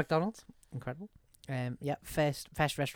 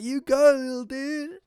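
high, loud put-on hippie cheer; 12 semitones higher, 11 dB louder, slower than usual. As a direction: cheer him on like a cartoon hippie. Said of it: "there's a hippie on a rock".

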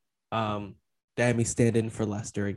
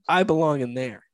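confident; 3 semitones higher, 4 dB louder than usual. Shown as a demonstration. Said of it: "there could have been confidence".

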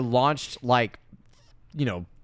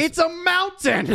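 laughing; 3 dB louder, much slower than usual. Real, not acted. Laughing at the movie.

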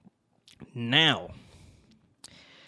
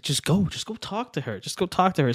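higher, insistent friend; urging buddy; 5 semitones higher than usual. Retold or imitated. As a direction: push your friend to go, voice raised in pitch. Buddy urging him from behind.

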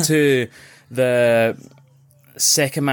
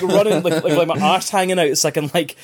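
laughing through the story; 6 semitones higher than usual. Real, not acted. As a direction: tell it while cracking up. Laughing while retelling the rush.

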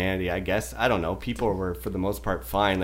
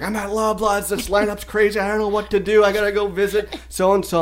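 higher-pitched frantic phone voice; mock panicked woman; 9 semitones higher than usual. Telling cohost about woman behind him, high mock panic. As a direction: imitate her fretting into the phone, up high. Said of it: "She's freaking the fuck out".

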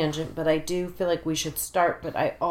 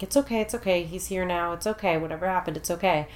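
reassuring; faster than usual. Retold or imitated. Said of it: "hugging him and I'm like".

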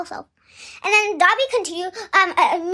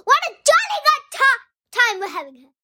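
booming Uncle Vernon; 6 semitones higher, faster than usual. Retold or imitated. Uncle Vernon covering the noise for guests, hearty mock boom. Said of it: "it was actually like this".

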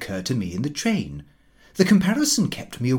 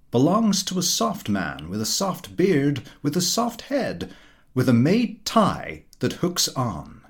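pompous Mister Huttle. Acted. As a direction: lecture the table like a self-satisfied know-all. Huttle continues his tirade.

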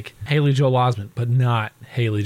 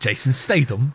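British accent. Shown as a demonstration. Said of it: "That's how he would say it".

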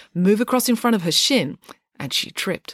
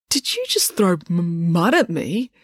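stammering. A narrator's reading. Joe asking April about thrown mud, stammering. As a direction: stammer on the first sound of mud. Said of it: "You may stammer".

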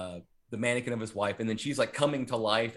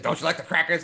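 higher, louder killer doing a voice; put-on character voice; 5 semitones higher, 6 dB louder, faster than usual. Killer asks the mannequin about dinner, put-on high voice. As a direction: imitate him playing a part, pitched up. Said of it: "he's doing this whole voice".

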